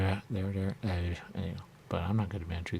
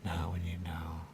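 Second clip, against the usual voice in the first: whisper; 2 semitones lower, 6 dB quieter, slower than usual. Real, not acted. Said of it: "unvoiced whisper".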